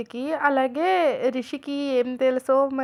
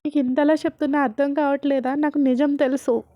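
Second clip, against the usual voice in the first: louder mock shout; angry retort; 6 dB louder than usual. Rishi to his aunt refusing comfort: loud mock shout. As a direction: push away the comfort, voice raised.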